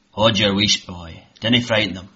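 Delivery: lightly voiced hushing old uncle; gruff old Scot. Old Tam hushing Jamie, gruff. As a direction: hush the boy sternly.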